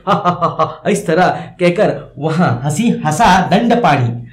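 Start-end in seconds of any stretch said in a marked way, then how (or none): 0.1-0.9 forced laugh. Shown as a demonstration. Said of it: "अविश्वास मतलब जबरन जब हंसते हैं".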